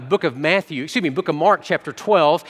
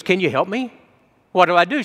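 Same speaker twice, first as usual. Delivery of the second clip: mildly pleading, a little higher; 3 semitones higher than usual. Retold or imitated. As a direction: imitate a burdened widow asking for help. Burdened widow pleads with pastor.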